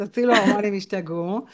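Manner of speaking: הצילו ההורמונים השתגעו with English vowels; הצילו ההורמונים השתגעו, Hebrew in an English accent. Pretend. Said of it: "במבטא אנגלי כזה".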